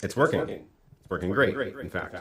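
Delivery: speech with trailing reverb echoes; echoey God voice. Real, not acted. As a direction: voice repeating in an echo. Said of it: "your echoey God voice".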